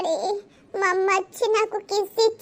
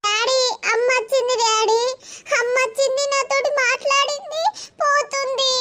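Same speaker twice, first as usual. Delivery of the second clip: higher, breathless rush of news; urgent excited report; 4 semitones higher than usual. Acted. Child waking to tell father mother came, excited. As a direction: blurt it out to dad, pitched up.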